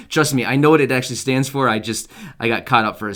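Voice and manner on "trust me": laughing. Real, not acted.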